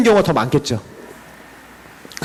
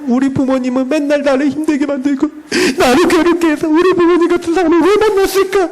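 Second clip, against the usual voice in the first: higher, complaining about parents in a whine; whining complaint; 6 semitones higher than usual. Acted. Believer moaning about parents, higher whiny complaint. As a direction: sulk about being stuck with these parents.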